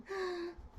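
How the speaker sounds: high sharp gasp of glee; a high thrilled intake of breath; excited gasp. Shown as a demonstration. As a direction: gasp with delight. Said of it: "Let's try with some glee".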